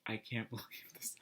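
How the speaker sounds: whispered with a laugh, barely voiced; stunned whisper. To herself at the till, a laughing whisper. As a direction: breathe it out in laughing disbelief. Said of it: "and I'm just like".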